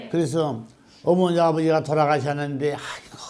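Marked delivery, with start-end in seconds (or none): 2.7-3.2 very soft, acted sighing groan; mock weary sigh. Struggling child to dead parents, sighing wearily. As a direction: let out a hushed, pleading sigh.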